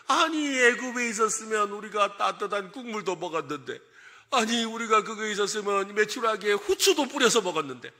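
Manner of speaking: put-on whiny grumble, long running phrases; acted grumbling. Israelites missing the food of Egypt, mock grumbling. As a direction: play a mock complainer harping on lost comforts. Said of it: "불평했다 이 말인가".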